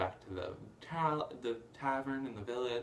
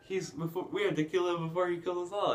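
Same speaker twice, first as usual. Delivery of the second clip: loud, higher, hammed-up villain alarm; mock rabble-rousing; 7 semitones higher, 7 dB louder than usual. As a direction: imitate a villain rousing a mob. Retold Gaston whipping up the mob.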